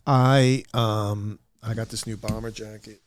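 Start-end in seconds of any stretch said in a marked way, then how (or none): none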